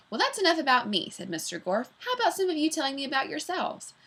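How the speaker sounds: bright, quick teacher voice; a cheery teacher quizzing the class; teacher greets his new class, bright and quick; teacher Mister Gorf. Acted.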